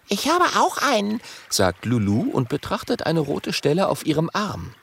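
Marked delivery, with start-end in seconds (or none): 0.1-1.2 put-on high girl's voice; young dragon girl. Lulu voiced.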